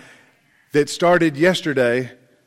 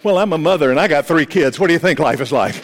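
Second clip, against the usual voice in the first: shaky nervous mother; faster than usual. Pretend. A frazzled mother introducing herself to a stranger, lightly shaky. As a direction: play a frazzled mother, half laughing. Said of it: "you might be shaking like this and go".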